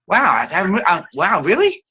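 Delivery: light up with interest; excited demo. Shown as a demonstration. Teacher shows excitement coming from the resonator. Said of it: "excitement in the voice".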